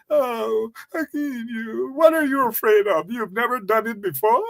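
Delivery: imitating a creep coaxing a boy; mock coaxing predator. Speaker mocking a politician coaxing a boy, wheedling mock voice. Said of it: "crocodile tears that he probably used to cry over".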